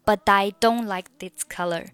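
"but I" with an over-clear "die" sound; too-clear linking. Shown as a demonstration. Teacher showing what to avoid, "but I" with a hard "die". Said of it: "你不能读成but I".

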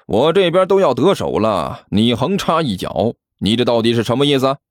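mildly irritated telling-off; understated annoyance; testy. Acted. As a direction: take the rival to task, a touch peeved. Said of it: "齐健没好气地说道".

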